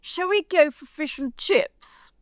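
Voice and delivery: hammed-up posh voice, high and slow; posh English lady. Proposing fish and chips to the girls, mock-posh and slow. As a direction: draw it out like a grand English lady. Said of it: "a very English thing, darling".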